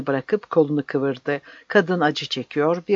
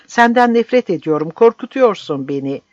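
high, loud then fearful; desperate shout; 5 semitones higher, 6 dB louder than usual. A narrator's reading. Woman fighting the captain, loud frightened cry. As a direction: cry out in hate and fear.

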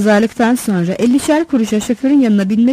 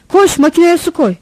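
loud, higher-pitched order; sleep-dazed shout; 7 semitones higher, 5 dB louder than usual. A narrator's reading. Drowsy driver sends assistant for water, groggy shout. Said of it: "uyku sersemi bir sesle bağırdı".

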